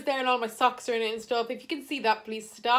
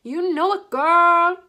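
louder, higher hype-up; playful sassy aside; 6 semitones higher, 10 dB louder, slower than usual. Pretend. Vlogger vibes to a song, playful hype. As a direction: call it out to your girl.

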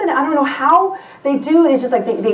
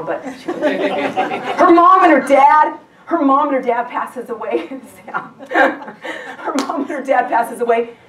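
laughing. Real, not acted. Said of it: "no, she doesn't die".

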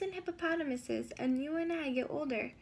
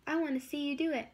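quick, eager pollywog; mildly excited fast chatter; faster than usual. Acted. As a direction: rush the words in excitement. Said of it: "the pollywog said excitedly".

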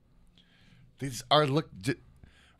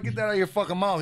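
mock yell at his kid; 7 semitones higher than usual. Father retelling how he yelled at his son, mock yell. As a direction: snap at the kid as if catching him smoking. Dad scolding son, retold.

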